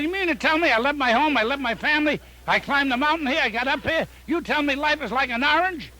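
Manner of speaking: high, indignant disbelief at the guru; can't believe he climbed for this; outraged disbelief. Acted. Seeker protesting to the Maharishi, high outraged disbelief.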